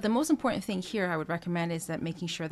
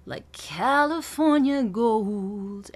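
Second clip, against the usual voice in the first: slow, louder, weight on "Cal" of "California"; anchor on Cal; 3 semitones higher, 5 dB louder, much slower than usual. Shown as a demonstration. Voice coach stressing "California" on "Cal". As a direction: lean into "Cal". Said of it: "Cal of California".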